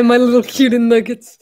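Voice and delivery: affectionate pet name. Pretend. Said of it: "Call us cutie nuggets".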